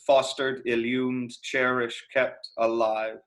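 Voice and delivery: slow, measured line with FOS in "Fostered" stressed; stress on first syllable. Shown as a demonstration. Teacher showing students the trochee in the line, stressed FOS-tered. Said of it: "first part of fostered would take the emphasis".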